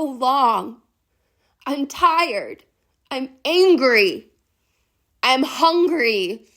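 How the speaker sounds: hurt outburst in short, loud bursts; anguished angry yelling. Acted. Long-abandoned wild woman confronts you, yelling in anguish. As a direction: hurl each grievance out, wounded and accusing. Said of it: "And she yells again".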